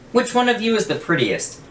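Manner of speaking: high calling voice, asking the crowd; calling out to the cats. Acted. Old man calling his cats, high sing-song. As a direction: sing out the question to all the cats.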